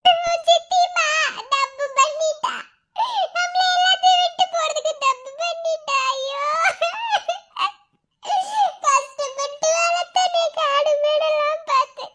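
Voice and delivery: sobbing lament over a lost sister; broken-hearted keening, crying through the words; tearful lament. Acted. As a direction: wail it out, voice catching between words. Mourning, child asks about aunt.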